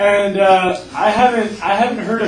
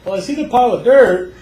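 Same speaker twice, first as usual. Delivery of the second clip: laughing; 6 semitones higher, 7 dB louder, faster than usual. Retold or imitated. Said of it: "they're like".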